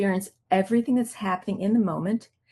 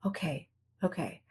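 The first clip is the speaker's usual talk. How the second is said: soft realization; 3 semitones lower, 5 dB quieter than usual. Retold or imitated. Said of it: "And I'm like".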